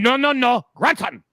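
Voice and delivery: put-on loud, high Asian-accented bark; insistent correction in a mock Asian accent. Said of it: "And the guy barked".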